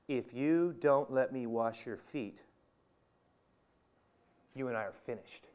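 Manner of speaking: grave, controlled warning; strong statement. Acted. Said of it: "That's a pretty strong statement".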